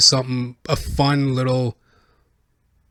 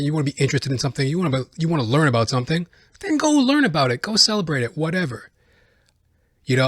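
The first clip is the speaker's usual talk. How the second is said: ordinary delivery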